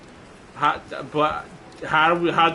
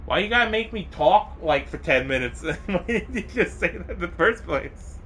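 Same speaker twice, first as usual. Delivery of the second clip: higher, playful mock outrage at Tempest; mock indignant; 8 semitones higher than usual. Teasing chatter Tempest for the late reveal, mock indignant. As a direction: tease him with fake hurt.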